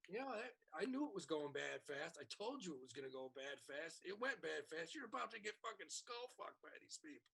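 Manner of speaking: a quiet I-told-you-so; muttered told-you-so. Retold or imitated. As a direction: mutter it under your breath, smug.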